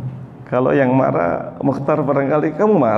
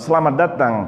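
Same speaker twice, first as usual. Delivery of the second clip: tender welcome; 6 semitones lower than usual. Acted. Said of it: "fatakulu marhaban".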